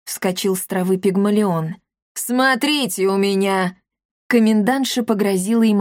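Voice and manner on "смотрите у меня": a domineering boss lady demanding the quota; bossy commandant. Acted. Commandant's voiced role. (властная комендантша, громко)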